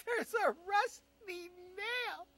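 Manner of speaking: laughing disbelief, slow and loud. Retold or imitated. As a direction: drag it out while cracking up. Laughing slow repeat of punchline.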